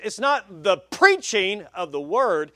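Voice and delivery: "preaching" leaned on, slow and measured; slow down and weight the word "preaching"; stress on PREACHING. Shown as a demonstration. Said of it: "put the emphasis in the wrong place".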